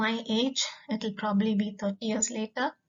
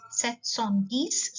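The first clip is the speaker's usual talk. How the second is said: "sept cent dix" repeated slowly, rising on dix; teacher repeating for learners; much slower than usual. Shown as a demonstration. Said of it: "seven hundred and ten".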